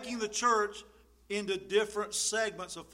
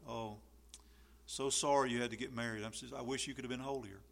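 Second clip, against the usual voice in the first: mock pity; 6 semitones lower, 7 dB quieter, faster than usual. Mocking judgmental pious people.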